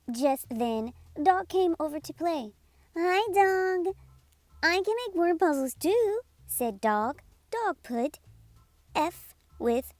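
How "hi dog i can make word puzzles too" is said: higher, quick and eager; eager dog voice. Acted. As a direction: play the puppy full of energy. Dog character voice.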